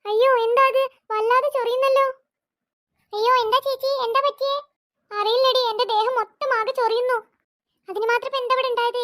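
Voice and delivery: put-on scared girl crying out to her mother; panicked girl. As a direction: yelp in alarm as something lands on you.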